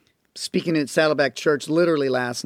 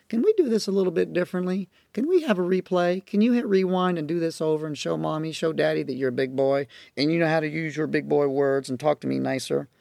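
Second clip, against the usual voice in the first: modeled gentle parent; 2 semitones lower, 3 dB quieter than usual. Shown as a demonstration. Parent gently asking a child for a replay, soft. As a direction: coax the child kindly to try again. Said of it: "when you interact with".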